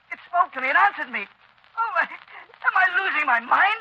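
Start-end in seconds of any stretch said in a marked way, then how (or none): 1.8-3.8 halting, slow, fearful question; frightened. Acted. Doctor terrified by the unseen voice, slow and afraid. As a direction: ask it shaken and slow.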